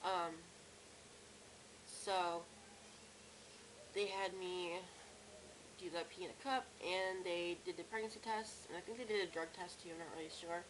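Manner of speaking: ordinary talk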